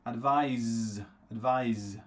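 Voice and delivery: advise, final Z sound. Shown as a demonstration. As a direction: advise ending in a buzzing Z. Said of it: "That's the verb".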